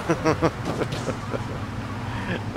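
hushed snicker to himself; small private chuckle; quiet chuckle. Real, not acted. Chuckles after the joke.

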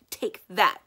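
loud mock sword-fight shout; pirate battle cry. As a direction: yell it as you swipe the sword. Pirate duel swipe.

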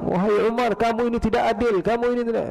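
high, insistent mock tirade; retold angry scolding. Uyainah confronting Umar over injustice, scolding angrily. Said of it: "Marah-marah, dia bilang".

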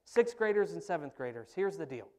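loud no-nonsense youth pastor; stern camp leader. Retold or imitated. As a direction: bark the rules at the kids. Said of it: "he goes".

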